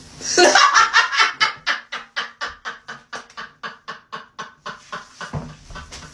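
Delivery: long, breathless staccato laugh fading away; high, loud laughing fit; long cackle. Real, not acted. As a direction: cackle until the air runs out. Cracks up at con artist line.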